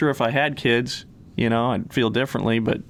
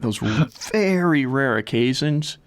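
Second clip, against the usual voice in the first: shivering; slower than usual. Real, not acted. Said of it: "it's so cold down here right now".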